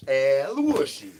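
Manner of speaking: crooning call in a strange voice. Acted. Repeated character chant.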